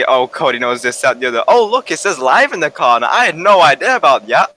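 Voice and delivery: mocking imitation. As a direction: parody a know-it-all friend. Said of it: "says the guy who spent".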